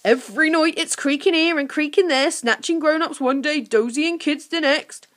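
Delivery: high, loud creature voice; suppressed laughter. A narrator's reading. Creature complains of nightly creaking, stifling laughter. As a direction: goblin wavering as if holding back laughs. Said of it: "trying not to laugh".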